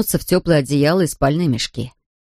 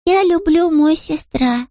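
put-on high, slow little boy, Scottish accent, happy; Scottish-accented small boy, delighted; joyful Scottish child; 11 semitones higher, slower than usual. A narrator's reading. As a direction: tell it gladly like a Highland toddler. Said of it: "радостно сообщил Харри".

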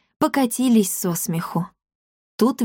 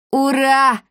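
high, loud cry of delight; joyful cheer; 6 semitones higher, 4 dB louder than usual. A narrator's reading. Pima cheers at the airship invitation, joyful and loud. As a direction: cheer like a boy jumping for joy. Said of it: "подпрыгнул от радости Пима".

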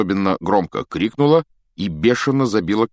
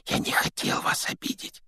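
soft unvoiced whisper; 6 dB quieter than usual. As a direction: whisper an apology. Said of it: "прошептал Гарри". (шёпотом)

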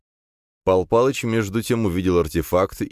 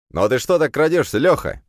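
higher, louder hail to a comrade; calling out; 9 semitones higher, 4 dB louder than usual. A narrator's reading. Thug greets Lyokha creeping out, calling. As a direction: call out to a creeping friend.

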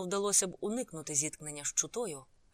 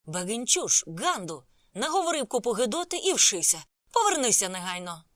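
loud, higher-pitched angry yell; shouted insults; 4 semitones higher, 8 dB louder than usual. A narrator's reading. Sanjay yelling after the departing narrator, shouting. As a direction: yell abuse after someone walking away. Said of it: "кричав мені услід".

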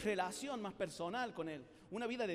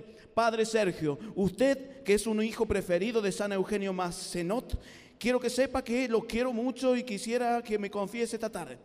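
stiff recited speech, very slow and louder; reading it out; 6 dB louder, slower than usual. Shown as a demonstration. Speaker reading a memorized speech to Padre Sergio, stiff and slow. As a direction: read it off the paper like a formal address. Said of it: "le hablara al Padre Sergio leyéndole".

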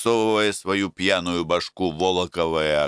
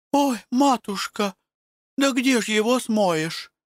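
frightened village women. Acted. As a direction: cry it out like scared peasant women. Women despair about tarred gates.

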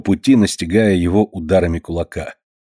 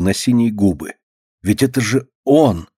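plain reading voice

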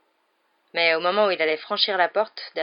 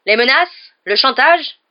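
furious roar; 7 semitones higher, 13 dB louder, slower than usual. A narrator's reading. Hagrid keeps roaring at Malfoy.

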